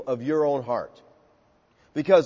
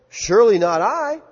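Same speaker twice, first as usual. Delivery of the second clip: higher, louder protest of innocence; protesting disciples; 4 semitones higher, 4 dB louder than usual. Acted. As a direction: insist it cannot be you.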